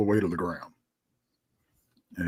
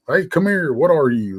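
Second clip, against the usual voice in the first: mock holler, starting high and louder; retold hollering; 5 semitones higher, 6 dB louder than usual. Man recalling hollering at the thing on the barn, mild holler. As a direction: re-enact calling out to a creature, half-hearted. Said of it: "I'm hollering at this thing".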